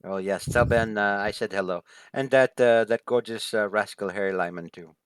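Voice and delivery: playful in-character fondness; lightly voiced flirtatious hostess. Hostess sends hello to gorgeous rascal Harry, lightly flirtatious. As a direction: send regards with a touch of flirtation. Game master voices Floor.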